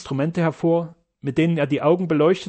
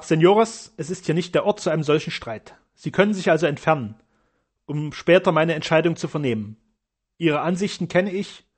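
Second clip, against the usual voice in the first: commanding. Acted. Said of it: "winkte gebieterisch".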